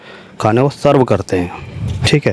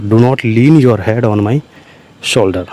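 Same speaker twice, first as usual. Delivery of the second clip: each word spaced out slowly for the class; slow dictation; 2 semitones lower, much slower than usual. Shown as a demonstration. Teacher spelling out an English sentence for learners, slow and deliberate. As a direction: dictate it slowly so students can follow. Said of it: "slow dictation of English phrase".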